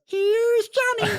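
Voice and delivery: high, slow Jack Nicholson "Here's Johnny"; drawn-out Shining Nicholson voice; Jack Nicholson impression. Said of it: "Jack Nicholson head ... says".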